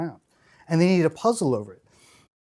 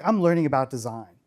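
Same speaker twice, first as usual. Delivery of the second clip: put-on Texas accent; 3 semitones lower than usual. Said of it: "in this Texas accent".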